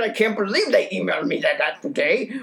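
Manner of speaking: stomp around like a cartoon of anger, squealing mad over and over. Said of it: "stomped around and bashed pans and was like".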